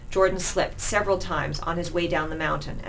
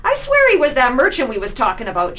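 high, loud cockney insisting; rough street rat; 8 semitones higher, 9 dB louder than usual. Acted. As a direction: swear it to your mates. Street rat voiced in story.

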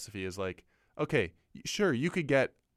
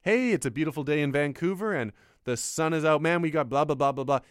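louder, hammed-up cheery DJ patter; mock radio DJ; 3 semitones higher, 5 dB louder than usual. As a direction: play a cheesy morning radio host. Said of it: "You just have to go like".

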